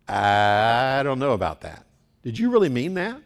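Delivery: a hint of a wary reader questioning Paul; skeptical reader. Doubting reader asks the preacher if he meant it, mild skeptic.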